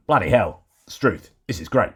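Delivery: light put-on Aussie accent; mock Australian accent. Host greets news from Australia in a mock Australian accent. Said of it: "my Australian accent".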